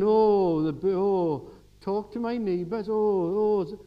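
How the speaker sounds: loud, slow burdened moaning; mock groaning. Preacher mocks a reluctant neighbor-helper, loud groaning. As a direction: ham up the weary complaint.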